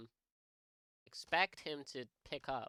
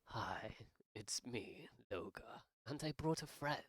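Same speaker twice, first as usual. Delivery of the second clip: mock sneaky whisper; 3 semitones lower, 6 dB quieter than usual. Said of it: "and be like".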